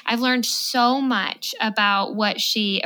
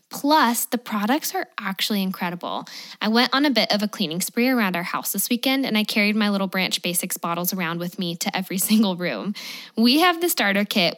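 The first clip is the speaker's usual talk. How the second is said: upbeat sponsor read, smooth and even. Acted. Podcast host reading a sponsor ad to listeners, upbeat ad read. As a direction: sell the cleaning product to listeners.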